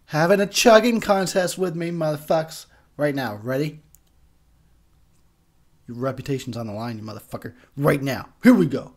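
tipsy and loud. Real, not acted. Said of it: "I'm probably slurring my words".

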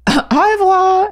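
high, drawn-out singsong goodbye; imitated farewell. Tailor calling goodbye as customer leaves, imitated singsong. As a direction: trill a big French farewell, slowly. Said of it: "she was like".

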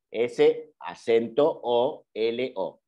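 letter by letter, "S, acento O, L, O", with pauses; deletreo pausado. Shown as a demonstration. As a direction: spell it out slowly, one piece at a time. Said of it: "va con acento en la O". (deletrear despacio, letra por letra)

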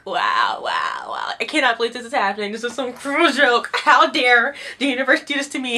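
mock Mira laughing in disbelief; a hammed-up laughing wow, wow, wow; half-laughing mock outrage. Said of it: "She's laughing and she's just like".

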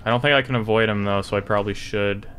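ordinary talk, nothing marked

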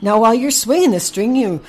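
encouraging coach. A narrator's reading. Horse Henry coaches Packy with the lasso, excited encouragement. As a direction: urge a beginner on with eager, high energy.

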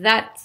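"that" with a voiced th; buzzing th. Shown as a demonstration. Teacher showing the second th, "that" with a vibrating start. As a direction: say "that" with the tongue between the teeth, buzzing like a Z. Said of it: "mais vibrant".

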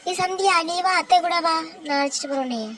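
stern aunt. Acted. Aunt defends the crying child.

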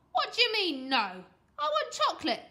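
put-on loud, indignant bratty boy; high, loud childish protest; outraged. A narrator's reading. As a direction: throw a tantrum at being refused.

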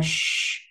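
"sh" with a strong stream of air; heavy S sound. Shown as a demonstration. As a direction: curl the tongue and push out "sh". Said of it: "đẩy luồng hơi mạnh ra". (sh âm sờ nặng, đẩy hơi mạnh)

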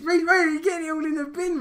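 calling out. Real, not acted. Friend calling out at bin.

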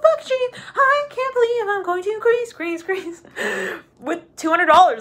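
giddy traveller bragging about a cheap Greece flight; all excited. Retold or imitated. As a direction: squeal like a giddy bargain hunter. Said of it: "you're, like, all excited".

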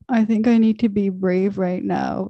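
retelling a mouth that couldn't form the words; a touch of a strained, faltering voice; strained, struggling voice. Retold or imitated. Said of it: "I swear that's how it came out".

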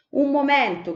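sharp high call to halt them; shout. Acted. Cipì to hungry Beccodolce, a sudden shout. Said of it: "gridò Cipì".

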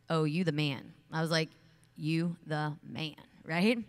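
loud, emphatic, with a slow "You the man"; excited praise. Retold or imitated. Speaker retelling how she praised the football player, loud and excited. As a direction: hype him up.

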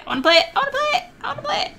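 squeaky rising excitement. Real, not acted. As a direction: climb up in pitch each time. Repeating eagerly, climbing higher.

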